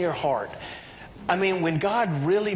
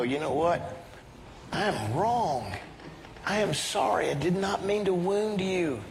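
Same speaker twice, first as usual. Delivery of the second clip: sincere apology; 4 dB quieter than usual. Acted. Models apology after heated argument.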